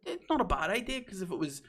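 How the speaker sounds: high, softened placating tone; trying to be nice. Retold or imitated. Retelling being nice about the man's business idea, placating. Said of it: "I was trying to be nice".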